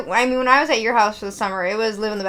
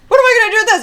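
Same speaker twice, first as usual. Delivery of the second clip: incredulous question; 10 semitones higher, 7 dB louder, much faster than usual. Retold or imitated. Handed a tennis racket.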